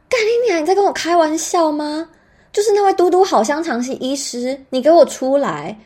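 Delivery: high, loud furious rant; loud, high-pitched retold rage; angry outburst. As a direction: let rip at the doctor.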